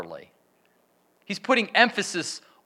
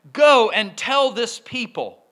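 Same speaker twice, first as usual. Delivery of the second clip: slow, louder reading of God's words; solemn command; 4 semitones higher, 5 dB louder than usual. Acted. Pastor reads God's command to the people, slow and weighty.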